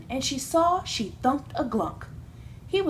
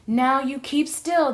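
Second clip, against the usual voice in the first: slow, louder, sharp command; snapped back; 3 semitones higher, 5 dB louder than usual. A narrator's reading. Glunk snaps back at sister, slow and louder. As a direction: snap it at her slowly. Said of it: "the glunk snapped back".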